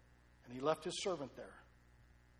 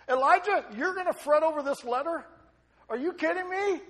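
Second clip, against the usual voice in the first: laughing mockery; 12 semitones higher, 14 dB louder than usual. Mocking Jezebel's scornful letter.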